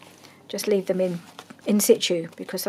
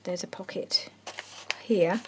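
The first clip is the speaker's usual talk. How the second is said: whispering. Real, not acted. Quiet crafting commentary.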